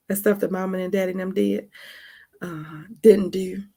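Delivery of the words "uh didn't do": slow, hushed aside; whispered aside. Acted. Hushed aside to viewers about mama and daddy. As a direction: drop to a secretive hush.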